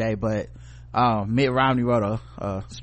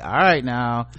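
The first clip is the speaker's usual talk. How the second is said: patient scolding; 4 semitones higher, 4 dB louder than usual. Retold or imitated. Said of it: "I had to be like".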